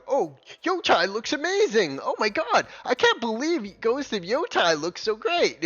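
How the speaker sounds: high-pitched mocking gush; mock gushing fans. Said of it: "anti-woke crowd going".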